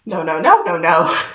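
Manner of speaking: very high wailing oh then repeated no, fading; panic-stricken squeal sliding down to a mutter; a terrified high-pitched protest that dies away; panicked wailing no. Retold or imitated. Acting out panic.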